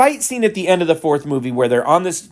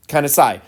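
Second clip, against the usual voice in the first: imitated weary sigh. Mimicking the exhausted hero's sigh at the stairs, weary sigh. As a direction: sigh like the hero staring up the stairs. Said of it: "he just kinda gives this".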